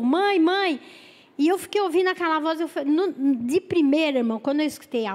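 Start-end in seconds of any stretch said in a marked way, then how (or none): 0.0-0.8 high mock wail; imitated crying. Young woman on the phone calling mother, imitated crying. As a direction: cry out higher, imitating the young caller. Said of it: "apareceu a voz da moça de novo".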